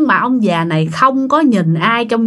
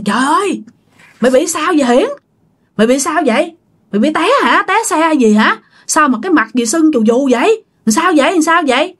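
higher-pitched, startled questions; alarmed questioning; 5 semitones higher than usual. Retold or imitated. Coworkers ask Hiển about his swollen face, in mild acted alarm. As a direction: fire off worried questions in retelling.

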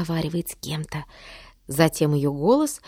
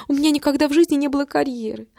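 higher, fast announcer-like recital; declaiming; 6 semitones higher than usual. A narrator's reading. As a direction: recite it like a broadcast script. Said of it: "продекламировала мама, как будто читала дикторский текст".

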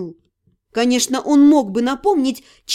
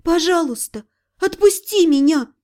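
pleading through tears; 3 semitones higher than usual. Acted. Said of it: "сказала я умоляюще".

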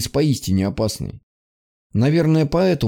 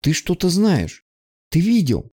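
higher, slow and urgent; suddenly alert, pressing; eager start; 6 semitones higher than usual. Acted. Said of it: "встрепенулась девочка".

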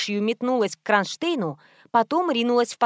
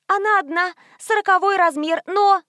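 high frightened pleading, rising; 8 semitones higher, 3 dB louder than usual. Acted. Scared saleswoman pleads with the thug, high and afraid. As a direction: squeak it out in fear.

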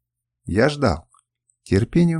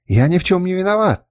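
high, loud frightened protest; exclaiming; 7 semitones higher, 4 dB louder than usual. A narrator's reading. Kernus pleading innocence to the assassin, high loud cry. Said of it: "воскликнул он".

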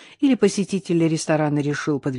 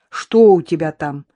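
louder, insistent question; demanding question; 7 dB louder than usual. A narrator's reading. Innokenty demands to know what is in the box. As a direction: demand an answer. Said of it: "требовательно спросил Иннокентий".

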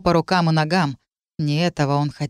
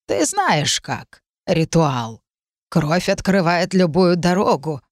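slow, ominous crone; thin reedy voice; slower than usual. Acted. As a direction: intone like an old witch. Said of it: "спросила".

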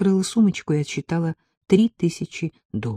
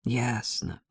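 much softer, doomed sigh of a word; resigned; 4 semitones lower, 9 dB quieter than usual. A narrator's reading. Narrator resignedly understands Ella's situation. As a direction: give up inwardly. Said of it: "сказала я обречённо".

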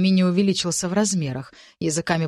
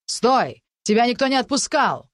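shouted order; 5 semitones higher, 3 dB louder than usual. Acted. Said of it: "проигнорировала крики".

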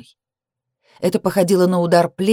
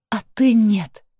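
sobbed; 5 semitones higher, slower than usual. A narrator's reading. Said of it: "всхлипнула я".

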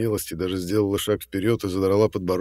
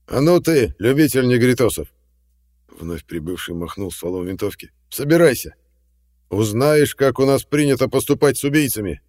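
loud, higher threatening shout; menacing order; 5 semitones higher, 7 dB louder than usual. A narrator's reading. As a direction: wave the rifle and command. McGregor threatening Jack.

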